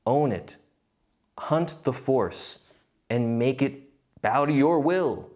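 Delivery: slow, lightly menacing Sith Lord; a hint of a dark lord, drawn out slowly. Quoting a Sith Lord to viewers, slow mock menace. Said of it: "that is something that a Sith Lord said".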